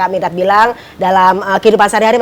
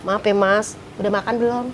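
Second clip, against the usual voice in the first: regretful wife; 2 semitones lower, 11 dB quieter than usual. Acted. Wife sorry by evening, asking her husband meekly and softly. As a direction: drop to a small, coaxing voice. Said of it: "Eh, sore nyesel".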